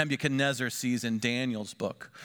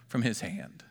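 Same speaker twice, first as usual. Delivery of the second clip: awed whisper; 5 semitones lower, 5 dB quieter than usual. Acted. Awe at God's power.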